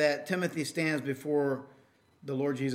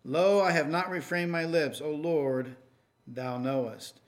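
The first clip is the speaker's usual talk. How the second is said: raised, declaimed psalm reading, easing at the close; scripture reading. Acted. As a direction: read the psalm out to the congregation, measured and emphatic. Reads Psalm forty aloud.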